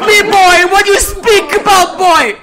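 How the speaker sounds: high, shouted Jamaican patois; Irish farmer turned Jamaican. Pretend. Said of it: "My Irish always turns".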